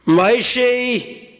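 drawn-out ominous call. Acted. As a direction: call your husband from upstairs. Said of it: "She starts to call your father down".

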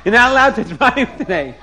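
mock rabbinic outrage; retold screaming. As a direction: call out a scandalized command. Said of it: "he started screaming".

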